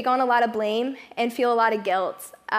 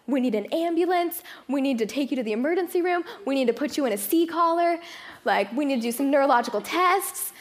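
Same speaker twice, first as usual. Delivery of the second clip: higher, hurried nurse listing emergencies; panicked nurse; 4 semitones higher than usual. Retold or imitated. Nurse panicking over a neck injury, higher and hurried. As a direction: rattle it off like a frantic nurse. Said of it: "she starts freaking out".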